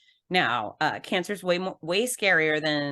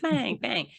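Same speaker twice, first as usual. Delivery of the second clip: imitated banging; 6 semitones higher than usual. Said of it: "Thor bangs his hammer".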